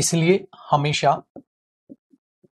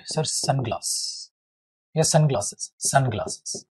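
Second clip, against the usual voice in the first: mock student; 2 semitones lower, 4 dB quieter, slower than usual. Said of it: "तो आप क्या बोलोगे".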